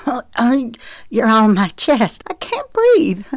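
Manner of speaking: rising to a high breathless squeak. A narrator's reading. Pinned under him on the ground, high squeaking protest. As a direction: squeak it out, crushed and short of air. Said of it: "she squeaked".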